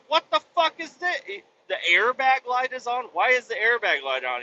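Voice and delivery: very high-pitched retold disbelief; incredulous questioning. Customer spots airbag light on dash, incredulous. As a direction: recreate baffled questions, pitched well up.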